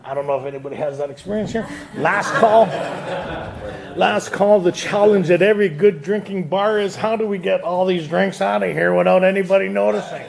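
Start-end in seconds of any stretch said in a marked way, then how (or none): 1.9-4.6 bartender calling last call. Retold or imitated. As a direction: announce closing to the room.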